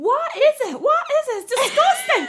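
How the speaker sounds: very high, loud mock shriek; hammed-up disgusted stranger. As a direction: shriek it like the outraged girl. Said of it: "She's like".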